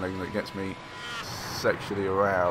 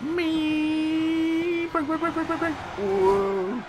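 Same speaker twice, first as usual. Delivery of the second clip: panicked yelling; much slower than usual. Real, not acted. Panicked braking into corner.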